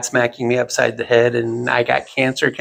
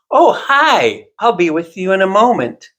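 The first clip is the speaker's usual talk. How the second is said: put-on higher, sing-song little old lady greeting; lightly voiced old lady, chirpy and fake-polite; stylist's chirpy greeting; 6 semitones higher than usual. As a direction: mimic the old stylist's breezy brush-off. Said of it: "she finally glances over and she goes".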